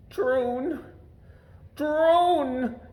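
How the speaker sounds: high, gasping cry of alarm; gasped in fright. A narrator's reading. Lord Droon gasping his own name in fright, high and alarmed. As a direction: gasp his name in panic. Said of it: "gasped Lord Droon".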